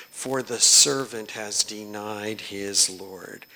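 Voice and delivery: impassioned poem reading; anguished recitation. Acted. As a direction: read it as Peter in despair. Reads Peter's aria text.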